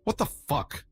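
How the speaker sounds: understated narrated scream; mock scream. A narrator's reading. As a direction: exclaim in shock without real screaming.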